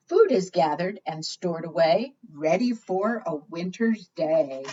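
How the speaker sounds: sing-song picture book reading; reading to children. Acted. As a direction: read the rhyme out to the little ones. Reads rhyming picture book aloud.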